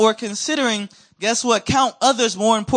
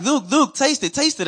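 higher, eager coaxing; insisting aunties; 7 semitones higher than usual. Retold or imitated. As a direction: keep pushing the popsicle at him.

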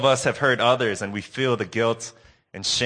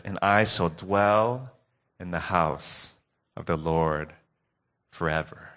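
put-on old grandma voice; 4 semitones lower than usual. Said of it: "in her old voice".

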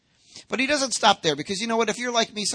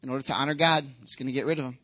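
flippant; 4 semitones lower, much faster than usual. Acted. Imagined father casually disposing of his son, mock flippant. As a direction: toss it off like flicking a switch. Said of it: "you can flippantly just throw a switch".

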